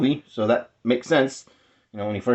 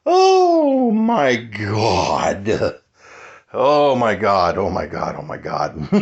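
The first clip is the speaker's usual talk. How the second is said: awed disbelief; 4 semitones lower, much slower than usual. Real, not acted. Overwhelmed by huge box contents.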